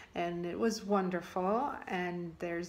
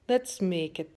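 louder, put-on Brazilian accent; 6 dB louder than usual. Giselle introduces her dish to Lisa, Brazilian accent. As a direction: play a Brazilian friend with a lively accent. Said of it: "tagged me to do the Brazilian accent".

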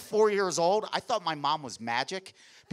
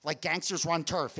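normal talking voice

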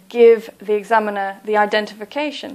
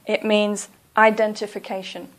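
ordinary talk

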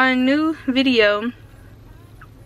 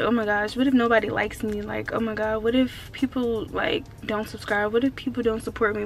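worried inner voice; 2 semitones lower, 6 dB quieter than usual. Retold or imitated. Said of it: "just be like".

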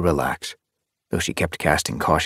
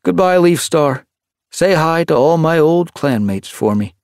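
higher, louder friendly goodbye; fond tomcat farewell; 10 semitones higher, 6 dB louder than usual. Acted. Hutch's farewell.

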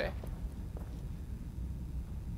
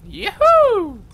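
high, loud whoop of joy; yahoo cheer; 13 semitones higher, 9 dB louder, much slower than usual. Real, not acted. Streamer celebrating a win, high loud whoop. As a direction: whoop it out in triumph.

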